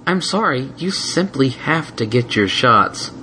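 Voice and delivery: slow, sorry but final; calm insistence; gentle but firm. Acted. Twilight firm.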